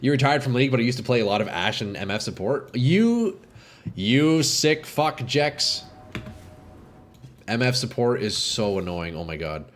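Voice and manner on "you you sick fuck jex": excited exclamation. Real, not acted. Reacting to a teammate's play.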